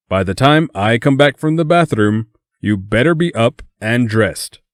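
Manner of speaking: high-pitched bossy Asian mom. A narrator's reading. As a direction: scold like a strict Asian mother. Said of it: "in his best Asian mom voice".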